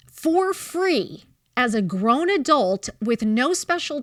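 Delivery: indignant retelling, key words drawn out slowly; retold pissed-off rant. Mom retelling how she told off the school board, pissed. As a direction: replay your outrage, dragging out the stressed words. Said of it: "I was pissed".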